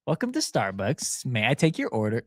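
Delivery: cheery drive-thru greeting; chirpy order-taker voice, a touch mock; drive thru speaker. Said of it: "You know, like that".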